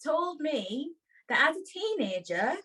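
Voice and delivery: put-on accent from up north; northern English accent. Host reads a listener's dilemma to Audrey, playful northern accent. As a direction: read it as a letter writer from up north. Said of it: "they're from up north".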